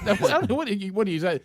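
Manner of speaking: lightly vamp up the question like Count Dracula; vampire voice. Acted. Host slips into a mock vampire voice on air. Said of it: "you just did a vampire".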